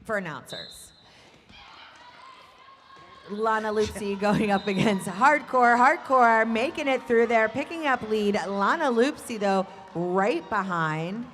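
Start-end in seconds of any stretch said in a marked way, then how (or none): 3.3-11.3 loud, fast-rising race call; excited play-by-play. Real, not acted. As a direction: call the jam with a burst of excitement.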